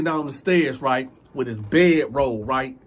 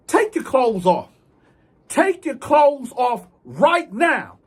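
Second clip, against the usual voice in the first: slow, loud, higher command; slow loud order; 8 semitones higher, 5 dB louder, slower than usual. Retold or imitated. Inmate ordering the thief to strip, slow and loud. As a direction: spell it out so he obeys.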